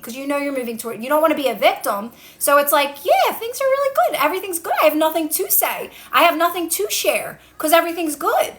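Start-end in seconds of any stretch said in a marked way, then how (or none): 3.0-8.5 bright, airy reply, pitched much higher; light and breezy. Shown as a demonstration. Coach showing how to answer a nosy friend, light and breezy. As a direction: toss it off lightly, as if all is well. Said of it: "You gotta be light about these things".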